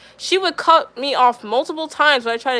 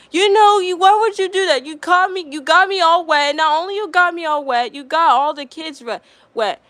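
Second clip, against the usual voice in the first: mock scolding teacher; 4 semitones higher than usual. Teacher scolding student for spraying her, mock scold. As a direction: mimic her telling you off, pitched up. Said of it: "scolds at me for it".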